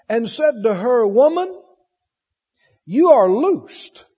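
deliberate, emphatic Bible reading with long pauses; scripture reading. Real, not acted. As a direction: read the verses out to a congregation.

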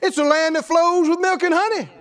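booming proclamation of a divine promise; proclaimed shout. Acted. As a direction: call it out like God speaking. God's promise proclaimed in sermon.

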